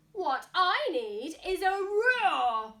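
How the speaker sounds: high, loud and slow eureka; excited mouse. Acted. Mouse announcing his idea, loud and high. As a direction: burst out with the big idea. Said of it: "he said".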